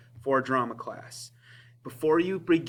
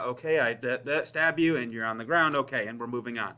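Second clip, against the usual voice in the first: bored over-rehearsed; 3 semitones lower than usual. Shown as a demonstration. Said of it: "it'll just be a boring".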